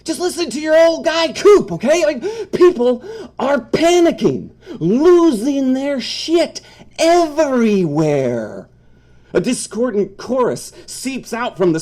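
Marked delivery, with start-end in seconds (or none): 0.0-8.7 high-pitched urgent dog voice; a pleading pet trying to get through; Coop the dog. Acted.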